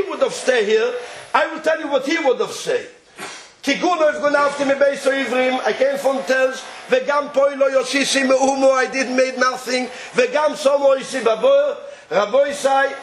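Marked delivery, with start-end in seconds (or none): 3.6-11.8 quick chant-like quoting; rapid scripture recital. Acted. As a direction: rattle the verse off very fast. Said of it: "verse recited fast".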